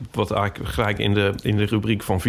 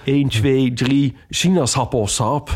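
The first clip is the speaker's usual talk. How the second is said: mic test voice; slower than usual. Retold or imitated. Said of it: "in de microfoon zet als, eh, zegt als test".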